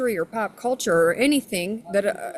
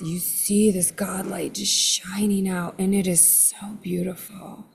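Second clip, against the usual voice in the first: slow, unvoiced awed whisper; reverent whisper. Real, not acted. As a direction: breathe it out in awe. Rapt description of light.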